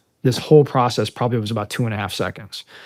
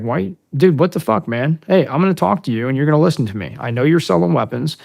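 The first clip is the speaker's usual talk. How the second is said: raised, insistent challenge; retold confrontation; 4 semitones higher, 4 dB louder than usual. Marine confronting a man over selling weapons, retold insistence. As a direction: confront him firmly, retelling it.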